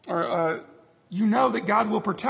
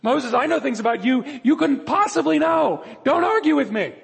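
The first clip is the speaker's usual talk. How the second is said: God speaking firmly, higher and louder; commanding divine rebuke; stern voice of God; 4 semitones higher, 4 dB louder than usual. Acted. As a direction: play God rebuking Moses, raised and firm. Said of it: "To which God replies".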